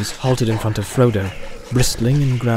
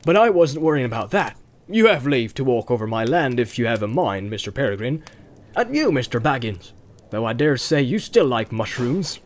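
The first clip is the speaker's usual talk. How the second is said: genial rustic farmer; teasing farmer; 2 semitones lower than usual. Acted. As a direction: needle an old mushroom thief good-naturedly.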